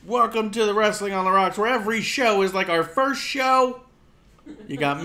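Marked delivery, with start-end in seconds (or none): 0.1-3.8 announcer voice. Acted. Mock show intro.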